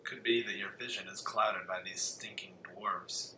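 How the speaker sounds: whispered, sneering elf; scornful elf whisper. Acted. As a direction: hiss it like a haughty elf. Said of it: "stay in character the rest of this game".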